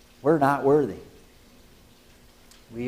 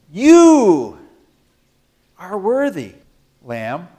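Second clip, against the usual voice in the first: exultant address; 3 semitones higher, 8 dB louder, much slower than usual. Acted. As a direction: lift it up like praise. Preacher addressing the Lamb.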